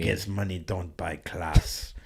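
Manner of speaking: imitating a Russian guy's putdown; retold line in a mock Russian accent. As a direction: put on a light Russian accent. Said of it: "He was, like, a Russian guy".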